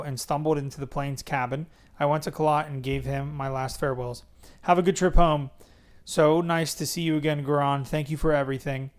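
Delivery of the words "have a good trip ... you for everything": put-on Indian accent. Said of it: "he said in the soothing Indian tone".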